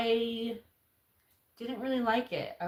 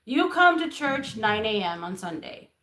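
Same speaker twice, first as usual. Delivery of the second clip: louder, firm Middle Eastern man; stern Middle Eastern accent; 4 semitones higher, 5 dB louder, slower than usual. Retold or imitated. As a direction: cut her off sternly, thick accent. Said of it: "he was very stern with me".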